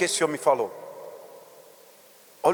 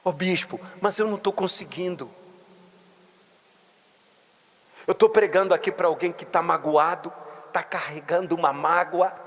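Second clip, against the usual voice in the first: a hint of a hurt believer, rising higher toward the end; pleading believer; 4 semitones higher than usual. Believer tells the bishop she can't forgive, pleading. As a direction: plead with the bishop, growing more desperate. Preacher voices a struggling believer.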